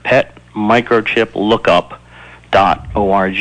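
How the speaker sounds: slow, deliberate dictation of 'pet microchip lookup'; spelled out slowly. Shown as a demonstration. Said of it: "All one word".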